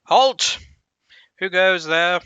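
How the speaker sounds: loud high challenge from a gate guard; guard shouting halt. Acted. Door guard stops the party, loud shout. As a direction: bark it out like a sentry stopping strangers.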